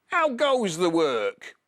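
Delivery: high, slow, loud bossy call; farmer calling. Acted. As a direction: bellow it down like a lazy farmer. Farmer calls again.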